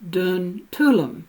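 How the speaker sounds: "Tulum" in two syllables, a vowel between L and M; hidden vowel sounded. Shown as a demonstration. Lecturer showing the castle's correct name, hidden vowel in "Tulum". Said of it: "it is correctly pronounced".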